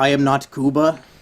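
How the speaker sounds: put-on ape voice. Doing an impression for a co-host: Caesar impression. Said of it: "I got a good Caesar impression".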